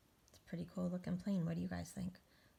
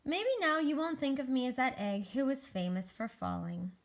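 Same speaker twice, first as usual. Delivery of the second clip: lifted, emphatic storybook ending; picture-book narration; 5 dB louder than usual. Acted. Egg asks to be remembered, emphatic storybook narration. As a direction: read the ending to children with conviction.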